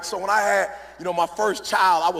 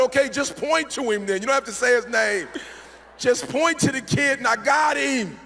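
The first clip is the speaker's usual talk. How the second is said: higher, urgent dad voice, acted; protective mock anger; 5 semitones higher than usual. Dad asking daughter to point out the boy, mock-protective anger.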